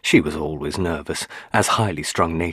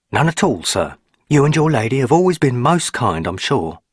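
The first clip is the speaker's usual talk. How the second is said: lightly voiced old country housekeeper, polite; a hint of a respectful old servant woman; old housekeeper politely answering her master; 7 semitones higher, 6 dB louder than usual. A narrator's reading. Housekeeper Mrs Dorman voiced.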